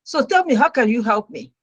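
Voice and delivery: pride set aside, asking for help sincerely; humbled plea. Retold or imitated. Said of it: "I put my pride aside and I said".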